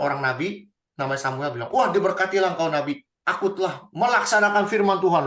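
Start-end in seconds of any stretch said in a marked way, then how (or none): 1.7-5.2 smug greeting. Acted. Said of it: "Luar biasa kan ngomongnya".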